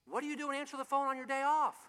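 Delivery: mock astonishment at him answering; lightly voiced surprised caller. Caller scolding on phone.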